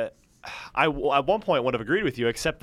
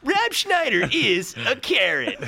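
laughing; 8 semitones higher, slower than usual. Pretend. Repeated mock line, laughing.

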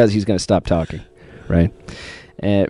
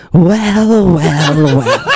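the Creator, Kalo impression; much slower than usual. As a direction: play the gloating alter ego, breaking into laughter. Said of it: "with the Kalo impression".

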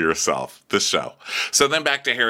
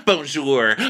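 moderately raised put-on "Bonjour"; mock French greeting; 4 semitones higher than usual. Asher greeting the guys, moderately raised mock voice.

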